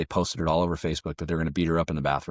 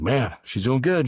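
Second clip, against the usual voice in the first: breathless, slowed, higher and louder, like she just came off the mat; panting out a quick report between rounds; winded fit mom; 7 semitones higher, 4 dB louder, slower than usual. Retold or imitated. CrossFit mom back from sparring, reporting breathlessly.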